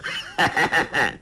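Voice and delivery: short mocking villain's laugh; a contemptuous laugh that falls away; sneering chuckle; scornful laugh. A narrator's reading. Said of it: "裘千仞笑道".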